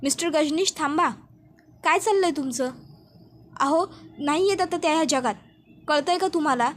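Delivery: mild mock shout to snap him out of it; retold shout. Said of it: "doctor जोरात ओरडतात".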